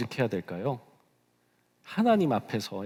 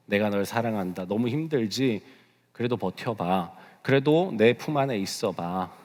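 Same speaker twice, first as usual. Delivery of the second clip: God's gentle comfort; 3 semitones lower than usual. Acted. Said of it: "하나님의 위로하심, 하나님의 격려로". (나직이 위로하는 하나님 목소리)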